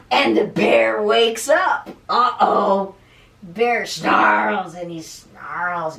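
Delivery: loud, dramatic storybook reading; slow, forceful, rumbling action words; roused-bear narration. A narrator's reading. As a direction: boom it out like an angry bear waking. Bear wakes roaring in the story.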